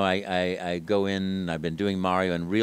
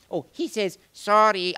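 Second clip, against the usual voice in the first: put-on higher Italian accent; Mario relaying; 10 semitones higher, 6 dB louder than usual. Mario passes Luigi's apology to the kids, higher pitch. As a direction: pass on the apology. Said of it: "I'd say".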